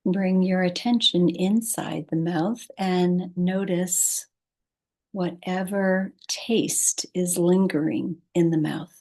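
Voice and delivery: calm, unhurried guidance with long pauses; guided meditation. Acted. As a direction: ease the listener toward sleep, pausing between phrases. Leads a meditation.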